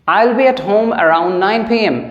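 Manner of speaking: very slow, each word set apart; slow teaching read. Shown as a demonstration. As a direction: say it slowly for the class. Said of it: "nine P M".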